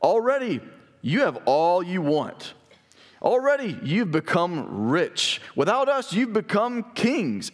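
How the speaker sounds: sarcastic reread of the verse. Shown as a demonstration. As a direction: drawl it out as if flattering them, meaning the opposite. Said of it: "He's being sarcastic in the way that he says it".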